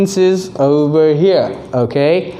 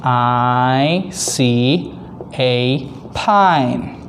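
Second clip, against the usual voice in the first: put-on broad singsong kids theatre; 4 semitones lower, much slower than usual. Shown as a demonstration. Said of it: "Can you say it with me again".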